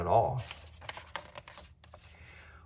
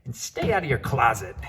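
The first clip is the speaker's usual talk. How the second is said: firm parting order; 3 semitones higher, 6 dB louder than usual. Acted. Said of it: "she added".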